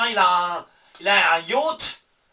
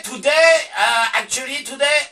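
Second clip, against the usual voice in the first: mock English shout; 3 semitones higher, 4 dB louder than usual. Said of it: "comment on fait".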